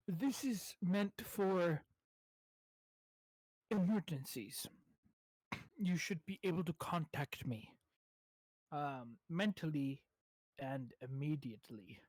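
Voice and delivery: lightly acted, slow, deliberate instruction; earnest adventurer explaining. Adventurer explaining the scroll to him, slow and deliberate. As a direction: spell it out with long pauses.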